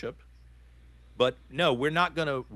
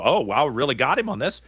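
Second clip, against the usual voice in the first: mock gloating; 6 dB louder than usual. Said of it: "if you think you".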